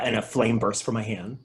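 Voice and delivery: normal talking voice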